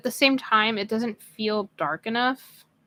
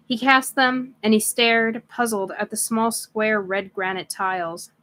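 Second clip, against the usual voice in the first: measured read-aloud storytelling; story narration. A narrator's reading. Reader telling stream listeners of Primus's camp, story narration. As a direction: read it like a novel, phrase by phrase.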